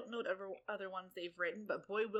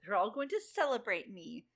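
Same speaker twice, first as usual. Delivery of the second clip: bratty; 5 dB louder than usual. Retold or imitated. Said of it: "Snow's like".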